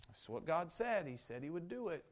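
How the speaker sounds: restrained, everyday statement of trust; matter-of-fact belief. Acted. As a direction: state it evenly, without excitement. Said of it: "How often do we read that and we say".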